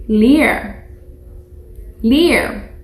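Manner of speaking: leer said as two joined vowels, leh-EHR; teacher modelling leer; Spanish word model. Shown as a demonstration. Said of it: "Can you try that?".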